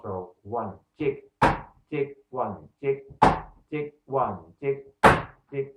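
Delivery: counting with clipped "tick" guitar chops; imitating the rhythm guitar. Shown as a demonstration. Teacher mimicking reggae rhythm guitar, short ticks. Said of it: "the rhythm guitar goes around this accent".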